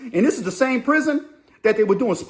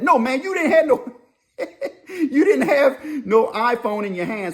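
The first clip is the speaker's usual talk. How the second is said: mock scolding; 5 semitones higher than usual. Mocking kids' lack of phones.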